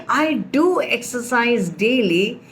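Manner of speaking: "do" emphasized against a doubt; stress on do. Shown as a demonstration. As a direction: insist with weight on "do". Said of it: "because somebody has a doubt".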